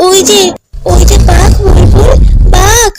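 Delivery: panicked shout to a friend in danger; frightened warning. Acted. Child warning Bulbul about the tiger, frightened.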